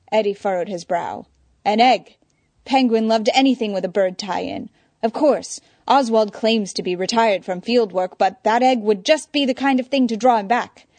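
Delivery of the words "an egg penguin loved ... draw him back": worried, rising alarm; agitated. Acted. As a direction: fret it out loud, voice pushed up. Eddie frets aloud.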